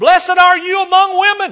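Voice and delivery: proclaiming out loud, very high and very loud. Reading scripture to listeners, voicing Elizabeth's blessing with a loud voice. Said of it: "with a loud voice".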